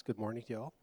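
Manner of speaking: a light Southern American lilt on the greeting; slip of Southern accent. Real, not acted. Pastor greeting the congregation in a light Southern accent. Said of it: "I don't know where that southern accent came from".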